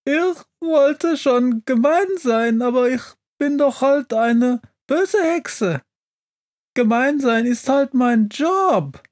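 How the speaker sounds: very high-pitched crying witch voice; tearful wailing. A narrator's reading. Witch in the snow excusing her meanness, wailing. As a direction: wail your excuse through mock sobs. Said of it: "fängt dann an zu weinen".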